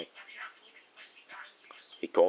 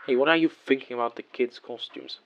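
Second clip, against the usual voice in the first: higher, lightly chirpy parent voice; bright and cheerful; 5 semitones higher than usual. Acted. Dad talking for the kids to hear, bright and cheerful. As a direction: brighten up as if chatting for the kids' benefit. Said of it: "All bright and cheerful".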